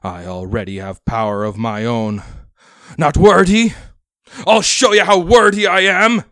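very loud, high raging yell; furious shout. Acted. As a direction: roar your defiance. Enraged captain shouts.

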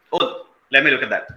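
lightly voiced Indian accent, a little offhand request. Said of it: "the speaker speaks in an Indian accent".

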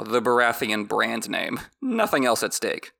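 ordinary talk, nothing marked

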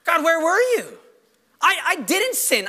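acted aggrieved complaint; questioning God. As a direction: plead your innocence to God. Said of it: "he begins to question God's goodness".

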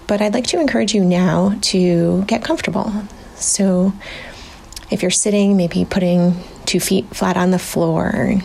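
unhurried meditation lead-in with long pauses; guided meditation. Real, not acted. Researcher settling listeners in before a meditation, calm guiding voice. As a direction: ease listeners into stillness, pausing between phrases.

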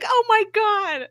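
high, slow, drawn-out gasp of shock; excited scream. Retold or imitated. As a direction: squeal it like you just saw the twist. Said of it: "like, screaming".

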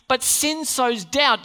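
slow, heavy statement; slow emphatic. Shown as a demonstration. Preacher to the church, slow and weighty. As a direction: press "sin sows doubt" slowly.

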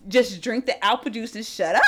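mild, easygoing imitated order; casual, friendly-intended imitation; being nice. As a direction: say it kindly, with no edge. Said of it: "he was being nice".

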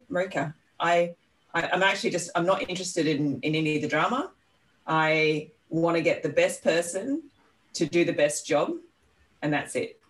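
politely firm, measured and unhurried; kindly, polite. Retold or imitated. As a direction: set it out kindly, with small pauses. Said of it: "it was just very kindly said".

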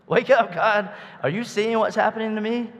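high, loud cry to God; desperate plea. Acted. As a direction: beg God to wake up. Preacher voicing David's plea.

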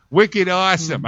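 high-pitched English-Boston hybrid accent; English-Boston mashup accent. Shown as a demonstration. Host trying out the mashup, English-Boston accent. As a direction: attempt Boston slang in a half-English accent. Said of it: "an English Boston accent mi-, merged together".

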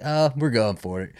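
a hint of a French accent. Quoting the Frenchman in a slight French accent. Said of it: "in his French accent".

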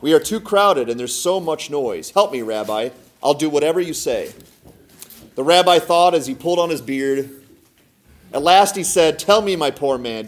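expressive storybook reading; story narration. A narrator's reading. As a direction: tell it as a folk tale, figures lightly voiced. Reads a folk tale aloud.

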